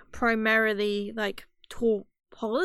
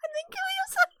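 high squeaky ferret voice. Pretend. Nasty conscience ferret voice.

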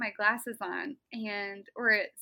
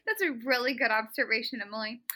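ordinary delivery

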